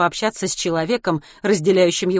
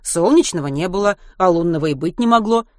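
lecturing teacher; 2 semitones higher, 4 dB louder than usual. Acted. Geography teacher explains.

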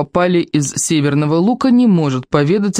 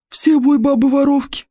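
wheezy hiss; 10 semitones higher than usual. A narrator's reading. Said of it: "просипел".

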